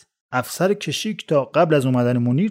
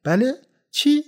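yelling; 4 semitones higher than usual. Acted. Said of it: "رسول داد کشید که".

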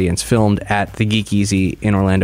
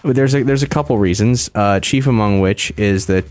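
after wisdom teeth. Real, not acted. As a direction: mouth barely opening. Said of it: "I might sound a little weird 'cause I got my wisdom teeth out".

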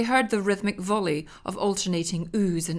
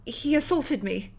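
1 fake-hurt wife; 7 semitones higher, slower than usual. Wife lying after caught.

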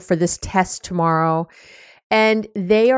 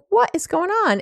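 bewildered; 11 semitones higher than usual. Retold or imitated. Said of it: "and you're like".

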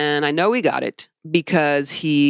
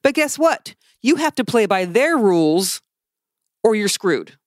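higher-pitched, emphatic venting; infuriated rant; 5 semitones higher than usual. Real, not acted. Podcaster venting about church rules to co-host, infuriated. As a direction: vent real frustration, leaning on key words. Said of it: "'cause it's infuriating".

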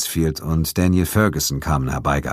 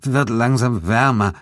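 slow, halting, shivering words; trembling voice; 6 semitones higher, slower than usual. Acted. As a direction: speak through the shivers. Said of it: "sagte er mit zittriger Stimme". (mit zittriger Stimme, stockend)

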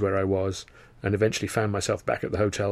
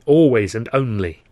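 fervent; 7 dB louder than usual. Acted. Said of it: "I said fervently".

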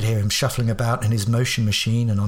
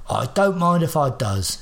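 put-on slow, higher old man voice; 3 semitones higher than usual. Old man accepting tea from Watson, slow and pleased. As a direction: accept it like a slurping old codger.

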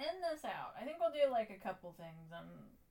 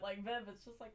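normal talking voice

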